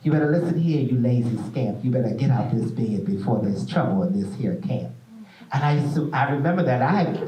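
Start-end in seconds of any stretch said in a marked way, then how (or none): 0.0-4.9 mother's wake-up poem in a light Southern dialect; Southern dialect recital. Retold or imitated. Mother waking her sons, lightly voiced Southern dialect poem. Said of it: "it spoke, like, in dialect, of a very Southern dialect".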